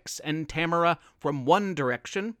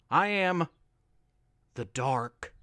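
the Dark; 3 semitones lower than usual. A narrator's reading. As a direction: menace hidden in politeness. Monster introduces itself.

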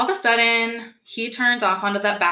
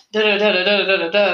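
mock rant; 6 dB louder than usual. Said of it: "just ranting about stupid shit".

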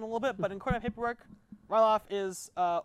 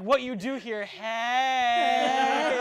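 gruff druid; 4 semitones higher, 5 dB louder, much slower than usual. Acted. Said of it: "He's like".

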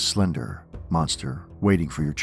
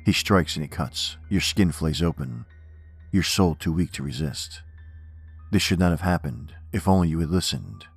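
measured, ominous poem recital; poem reading. Acted. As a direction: recite it darkly, line by line. Reads horror poem aloud.

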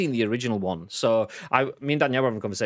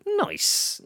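squeaky nice. Pretend. Squeaky exaggerated reaction.

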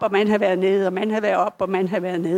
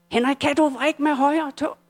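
raised, higher call to a patient; doctors calling out; 5 semitones higher than usual. Retold or imitated. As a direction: call his name to get a response from the bed. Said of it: "begynder lægerne at råbe". (let lidt højere råb til patienten)

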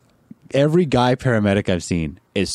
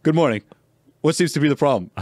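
cheery greeting; 5 semitones higher, faster than usual. Retold or imitated. Sleeper greets cops cheerfully.

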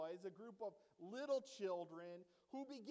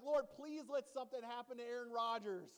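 pleading prayer; 3 semitones higher, 4 dB louder than usual. Pretend. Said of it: "I'm like".

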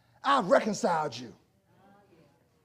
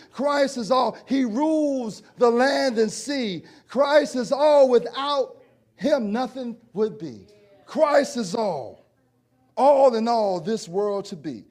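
reciting hymn lyrics; slower than usual. Acted.

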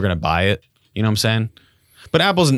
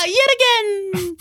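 weird voice; much slower than usual. Acted. Thief taunting victims while running off, weird high villain voice. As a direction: cackle like a cartoon villain, very high. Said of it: "making weird voices while you do it".

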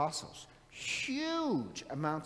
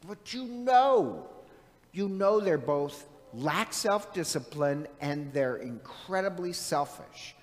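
raised voice, scolding mother in a retelling; retold yelling; 3 semitones higher, 6 dB louder than usual. Son yelling at his mother over covid risk, retold loudly. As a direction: launch loud into an exasperated retold telling-off. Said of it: "I start yelling at my mother".

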